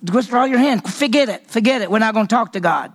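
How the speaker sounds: mock impatient Saul, forget it; dismissive king. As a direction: wave off the priest. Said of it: "He's saying".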